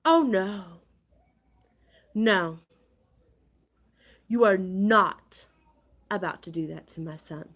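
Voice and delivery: loud, furious outburst. Real, not acted. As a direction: blast it out, outraged for her son. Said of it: "That infuriated me".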